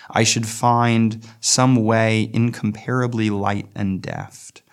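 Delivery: slow, measured poetry recital; poem reading. Acted. Teacher reading the poem to students, slow and measured. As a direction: read the stanza slowly, savouring each line. Reads the poem stanza aloud.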